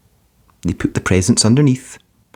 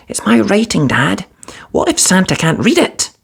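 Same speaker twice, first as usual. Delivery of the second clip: put-on higher, small boy's anxious voice; young boy Arthur, worried; 11 semitones higher than usual. A narrator's reading. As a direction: sound like a worried little kid. Little boy voices worry.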